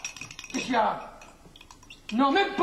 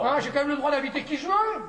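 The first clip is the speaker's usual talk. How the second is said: higher-pitched, aggrieved protest; scolding in a raised pitch; indignant telling-off; 4 semitones higher than usual. Acted. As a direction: stand on your rights, worked up. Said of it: "c'est pas moi qu'il faut engueuler".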